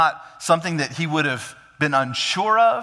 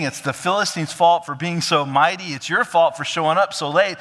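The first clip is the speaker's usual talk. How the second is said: higher, urgent self-justifying; defensive pleading excuses; 4 semitones higher, 3 dB louder than usual. Retold or imitated. Saul justifying himself to Samuel, urgently defensive. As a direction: talk fast to excuse yourself.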